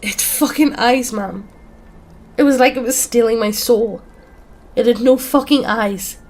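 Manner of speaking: high, loud, distraught cry; breaking down. A narrator's reading. Dan recalling the creature to friends, breaking down. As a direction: wail it out as you fall apart. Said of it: "He starts really sobbing and breaks down".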